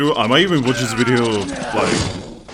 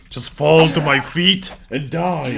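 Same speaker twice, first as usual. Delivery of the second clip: stagey fake archaic declaiming; 5 semitones higher, 4 dB louder, slower than usual. Slow dramatic command to enemy.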